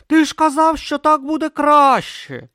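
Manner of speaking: high, loud accusing yell. A narrator's reading. Brutha yelling at Om in the sea, accusing. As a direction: throw his words back at him. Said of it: "зарепетував Брута".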